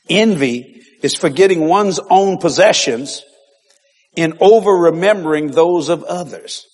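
slightly slow, steadier repeat; repeated dictation. Shown as a demonstration. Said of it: "write this down".

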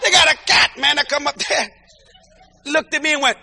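excited shouting tale. Real, not acted. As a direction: shout it out like a big church punchline. Telling of the slapping cat.

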